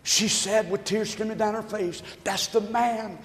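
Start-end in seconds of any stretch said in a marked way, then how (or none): 2.2-3.2 building to a cry. Acted. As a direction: build from a hush to a full cry. Widow's grateful outburst, building.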